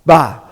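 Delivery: "ba" as one isolated syllable with an open ah; teacher models "ba" alone; syllable demo. Shown as a demonstration. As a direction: sound out "ba" for learners. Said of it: "we're gonna pronounce it".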